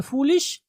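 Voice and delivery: फूलिश with a lengthened "oo"; drawn-out vowel. Shown as a demonstration. Teacher telling students to draw it out, drawn-out vowel. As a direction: hold the first vowel of फूलिश. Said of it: "थोड़ा सा आप खींचेंगे".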